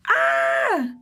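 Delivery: very high, loud squeal; piercing excited scream; ecstatic scream. Acted. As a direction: shriek with glee into the phone. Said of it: "Naja screamed in everybody's ear".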